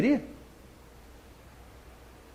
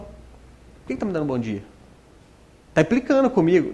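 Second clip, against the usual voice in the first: muttered, suspicious grumble, much softer; irritated suspicion; 3 semitones lower, 5 dB quieter than usual. Retold or imitated. Irritated person mutters back at a friendly good morning. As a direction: grumble as if the greeting were an insult. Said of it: "O bom dia da pessoa te irrita".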